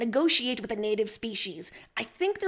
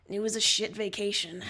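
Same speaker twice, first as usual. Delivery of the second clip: sighing; 3 semitones lower than usual. Acted. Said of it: "You sigh".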